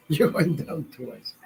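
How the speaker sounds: slow, through a laugh; laughing repeat. Real, not acted. Laughing at his own joke to Andrea, slow. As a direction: chuckle the punchline out slowly. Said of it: "repeated through a laugh".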